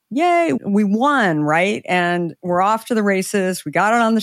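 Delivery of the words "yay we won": mock cheer. Celebrating first sale.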